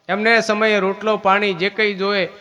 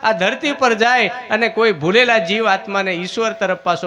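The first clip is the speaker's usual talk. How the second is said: loud preaching; 3 semitones higher, 5 dB louder than usual. Acted. Preacher quoting God loudly.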